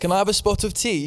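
mock proper English accent. Guest mimics Americans doing English, mock proper English accent. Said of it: "They become really, like, proper".

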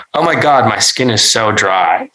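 a hammed-up whiny complaint; mock self-pity. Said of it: "in a way meant to elicit scoffs".

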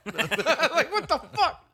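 high laughing disbelief; giggling what the fuck. Real, not acted.

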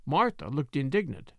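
ordinary delivery

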